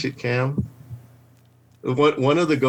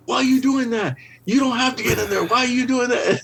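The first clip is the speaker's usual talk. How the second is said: imitating coworker; 11 semitones higher than usual. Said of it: "he was like".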